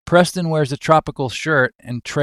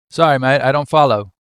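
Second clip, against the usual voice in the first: put-on Australian accent; 4 dB louder, faster than usual. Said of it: "Wilson goes to Australian, square-jawed Steve's".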